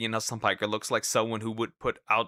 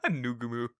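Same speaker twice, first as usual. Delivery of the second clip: laughing; 5 dB quieter than usual. Shown as a demonstration. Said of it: "mispronouncing this".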